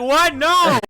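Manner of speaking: very high, loud what no; loud high disbelieving no; incredulous shout. Retold or imitated. Refusing again.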